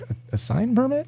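can't believe a sign needs a permit; incredulous. Retold or imitated. A bartender asking the officer in disbelief whether a sign needs a permit, incredulous.

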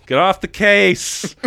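high, drawn-out mock captain's order; 警长怒吼. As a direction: bellow it slowly as a hammed-up angry boss. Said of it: "the captain wants him off the case".

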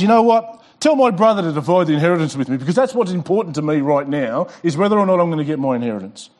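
hurried, insistent plea to the teacher, rushing through it; pushy demanding man. Acted. Man in the crowd begging Jesus for his inheritance, pushy and rushed. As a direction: push your claim fast and keen, like it's all that matters.

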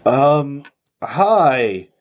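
just woken, slurred and slow; groggy, half awake after sedation. Acted. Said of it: "the groggy voice comes on".

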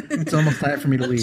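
distant, off-mic voice; laughing from across the room; far from mic. Real, not acted. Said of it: "'cause I'm away from the mic".

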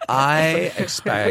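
high, drawn-out diva demand; hammed-up, stretched-out entitlement; mock demanding. Birthday girl listing what she expects, mock demanding.

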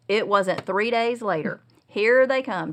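ordinary delivery

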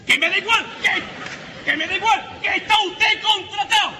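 rising from firm to shouted; building insistence. Acted. Jefe insiste cada vez más fuerte. (cada vez más alto e insistente)

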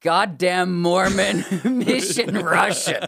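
laughing quote. Retold or imitated. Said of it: "my favorite phrase".

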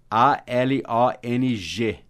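very slow, one letter at a time; spelled out letter by letter. Shown as a demonstration. Teacher spelling "along" slowly for students. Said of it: "spelling the adverb".

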